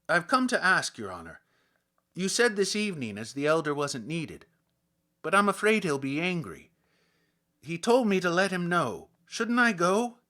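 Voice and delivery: loud, high, anxious policeman's plea; the peasant policeman fretting to his superior; loud worried policeman; humble policeman. Acted. Policeman reports to the official.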